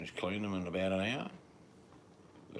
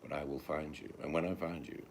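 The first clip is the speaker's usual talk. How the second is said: Liam Neeson impression; 3 semitones lower, 4 dB quieter than usual. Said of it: "Liam Neeson line".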